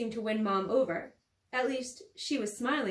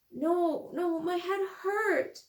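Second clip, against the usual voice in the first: sobbing; 7 semitones higher, much slower than usual. Acted. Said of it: "sobbing and gasping for breath".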